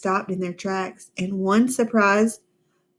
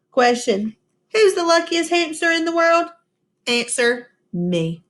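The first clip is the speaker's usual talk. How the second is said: high, proud answer; triumphant; 7 semitones higher than usual. A narrator's reading. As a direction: crow it proudly.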